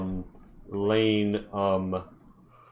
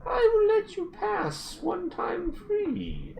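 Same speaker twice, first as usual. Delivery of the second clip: dwarf chief; 5 semitones higher than usual. Acted. Dwarf sets the terms.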